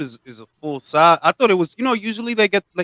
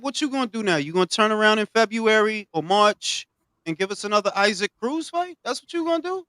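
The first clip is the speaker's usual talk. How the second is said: higher-pitched pointed questioning; skeptical challenge; 5 semitones higher than usual. Acted. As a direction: press him with rising, incredulous questions. Mockingly grilling absent boxer about plans.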